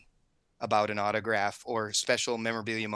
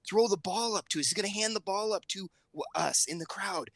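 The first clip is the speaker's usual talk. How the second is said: lightly voiced young daughter, higher pitch; a hint of a child's higher voice; daughter retelling; 6 semitones higher than usual. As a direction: tell it as the upset kid would. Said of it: "She goes".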